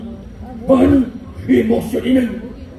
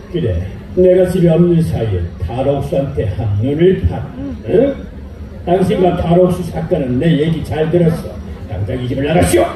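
much lower, stern accusing husband; jealous husband; 9 semitones lower than usual. Acted. Husband accusing his wife of cheating, low and stern. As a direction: lay down the law in a deep stern voice.

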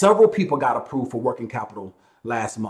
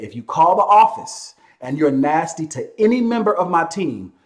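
ordinary talk, nothing marked

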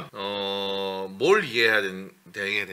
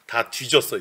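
ordinary delivery

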